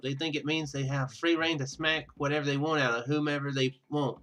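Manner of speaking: ordinary talk, nothing marked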